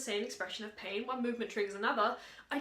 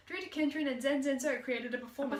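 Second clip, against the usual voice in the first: overlapping voices; 2 semitones higher, 8 dB louder, faster than usual. Acted. Two voices reading in unison.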